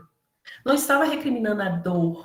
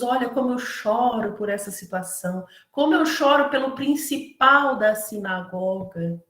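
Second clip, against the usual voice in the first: showy fake mourner. Paid mourner boasting of his tears, mocking fake grief. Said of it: "Eles estavam ali para ser vistos".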